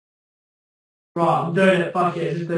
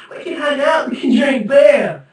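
excited laughing shout; 3 semitones higher than usual. Real, not acted. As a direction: call it out eagerly through a laugh. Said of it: "repeating invitation, laughing".

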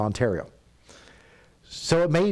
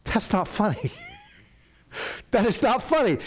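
put-on a kid stamping his foot at dad; whiny kid protest; 10 semitones higher than usual. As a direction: whine it like a sulky boy. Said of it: "And I'm like".

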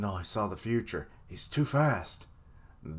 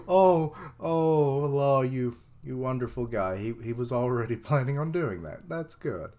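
voicing happy Luffy; 3 semitones higher, 3 dB louder than usual. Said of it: "voicing Luffy praising Law".

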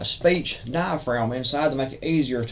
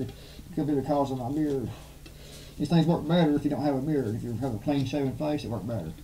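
muffled behind a gas mask; talking through a respirator; through a face mask; 7 dB quieter than usual. Real, not acted. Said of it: "you can still hear me talking through this mask".

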